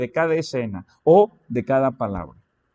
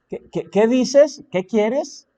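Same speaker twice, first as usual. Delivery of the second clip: mock startled "qué qué qué", higher and louder; imitating someone jolted out of a film, higher; startled reply; 7 semitones higher, 4 dB louder, slower than usual. Person pausing a movie answers whoever spoke to them, startled.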